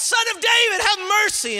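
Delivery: very high, loud plea; crying out. Acted. Believers calling on God from their longing, crying out loudly. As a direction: shout the plea at the top of the voice. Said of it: "we begin to cry out".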